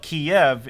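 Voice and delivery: Kiev in two syllables, kee-EV; Kiev the Russian way. Shown as a demonstration. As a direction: demonstrate Kiev as Russians pronounce it. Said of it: "that is saying it with a Russian accent".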